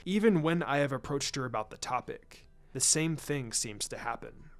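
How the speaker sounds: a hint of a grave clan patriarch, measured and formal; lightly voiced Hiashi. Hyuga head confiding in Shikaku, lightly voiced and grave. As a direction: speak as a proud head of clan admitting defeat. Hiashi describing memory gaps.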